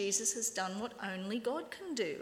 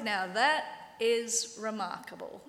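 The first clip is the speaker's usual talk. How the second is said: slow, dry sarcasm on that; drawn-out mock amazement; ex-blind man mocking the Pharisees, sarcastic; slower than usual. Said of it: "it's so sarcastic".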